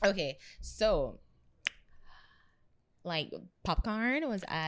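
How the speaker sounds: put-on slow drawn-out valley girl lilt. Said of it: "Stop with the tongue".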